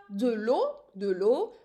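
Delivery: "de l'eau" with "l'eau" as a single syllable; teacher modelling "de l'eau" in one syllable. Shown as a demonstration. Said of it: "pronouncing it as if it's in one syllable".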